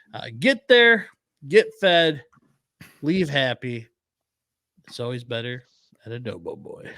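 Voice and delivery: upbeat radio ad read. Acted. Host reading a sponsor spot, upbeat ad voice. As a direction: sell the restaurant like a radio spot.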